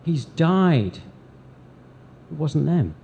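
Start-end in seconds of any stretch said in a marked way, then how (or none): 0.0-1.0 raised, grieving cry; louder, higher lament at the cross; mourning cry. Retold or imitated. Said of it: "from their bitter groanings, cried out".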